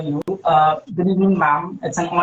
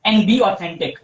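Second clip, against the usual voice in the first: muffled. Real, not acted. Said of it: "There's a muffled voice".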